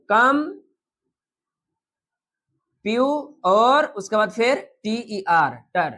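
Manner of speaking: कम, प्यू, टर said as separate beats; syllable by syllable; split into syllables. Shown as a demonstration. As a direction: break कंप्यूटर into three syllables. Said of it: "तो इसमें कितना syllable है".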